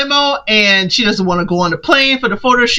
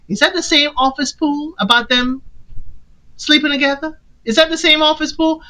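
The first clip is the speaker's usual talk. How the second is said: rising suspicion, climbing higher and faster; suspicious questioning; 5 semitones higher than usual. Retold or imitated. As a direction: ask it again, more and more suspicious.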